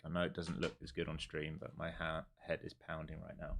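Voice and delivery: quiet, pained with a headache. Real, not acted. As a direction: speak through a pounding head. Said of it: "I'm getting such a bad headache".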